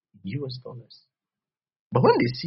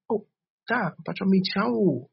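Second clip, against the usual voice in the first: put-on high childlike greeting; 8 semitones higher, 6 dB louder, slower than usual. Preacher acting a child greeting Mpacho, high-pitched. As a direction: play the eager child saying hello. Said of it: "Be childlike".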